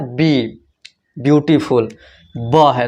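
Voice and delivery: ब्यूटीफुल said to show its opening ब consonant; initial B sound. Shown as a demonstration. Teacher showing students how beautiful begins, initial B sound. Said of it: "इसका pronunciation क्या है?".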